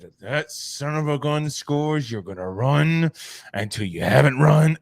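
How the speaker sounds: mock coach rant, building in volume; coming unglued. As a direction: act out the coach losing it. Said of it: "He comes unglued".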